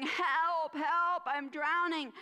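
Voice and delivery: "help" called out loud and slow, a drowning dog's yell; cry for help. Acted. Drowning dog calling to the boys from the river, loud desperate yell. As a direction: shout "help" like you're going under.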